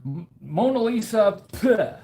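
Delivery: snooty art fans waving off the Mona Lisa; dismissive art lovers. Retold or imitated. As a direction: toss the Mona Lisa aside and demand the Lady J. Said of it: "they're gonna be like".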